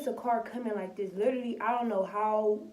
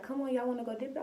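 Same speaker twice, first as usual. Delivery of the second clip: higher, fast, eager invite; quick excited invite; 4 semitones higher, faster than usual. Retold or imitated. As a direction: pitch the ride like it's a treat. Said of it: "she was like".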